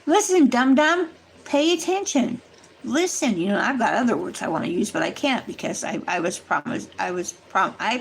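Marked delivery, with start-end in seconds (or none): 0.1-3.4 your own body snapping at you to wake up; inner alarm voice. Retold or imitated. The body warns a careless hiker, urgent scold. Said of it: "your body is going".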